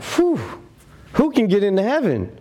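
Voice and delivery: high, fast, amazed "whew"; a mock-stunned disciple, fast and high; astonished disciples. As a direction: gasp it out in disbelief.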